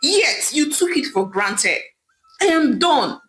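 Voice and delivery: a betrayed husband lashing out; angry barking. Acted. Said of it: "Ame barked angrily at Idara".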